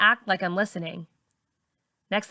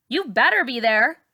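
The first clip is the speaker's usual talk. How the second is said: warning; 4 semitones higher, 4 dB louder than usual. A narrator's reading. Char warning narrator.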